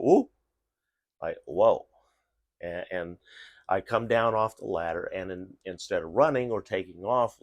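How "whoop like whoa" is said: dog startle noise. Retold or imitated. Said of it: "the dog went".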